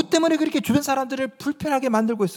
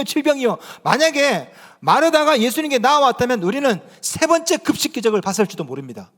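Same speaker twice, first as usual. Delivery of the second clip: normal talking voice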